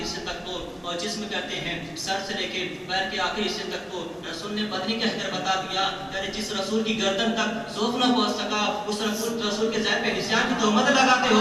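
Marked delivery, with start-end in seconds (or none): 6.1-11.4 building to a loud challenge; preaching. Real, not acted. Preacher rebuking those who accuse the Prophet, building sermon. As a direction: preach it, rising to a forceful loud finish.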